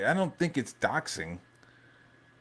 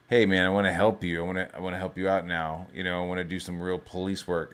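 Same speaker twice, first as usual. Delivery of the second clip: fast, low, eager pleading; eager rushed offer; 4 semitones lower, 3 dB quieter, faster than usual. Retold or imitated. Streamer retelling Stallone offering help, fast and eager. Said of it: "Stallone goes to De Niro's office and is like".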